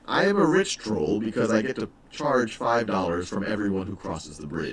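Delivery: a hint of a smug rich troll; speaking as the troll. Teacher voicing the troll for the class, lightly voiced. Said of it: "now I'm speaking as the troll".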